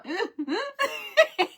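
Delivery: high mock choking gasps breaking into laughter; comic gasping for breath; imitated choking. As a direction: act out choking, then crack up. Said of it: "I couldn't breathe".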